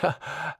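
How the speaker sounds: short, soft, high chuckle; self-satisfied chuckle. A narrator's reading. Posh teacher amused while sorting his mail, soft chuckle. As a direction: chuckle to yourself. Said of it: "Edwards chuckled to himself".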